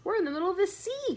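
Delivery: high, loud, fast cry; cried out. Acted. James cries to the bugs, high, loud and fast. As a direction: blurt out the discovery. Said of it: "cried James".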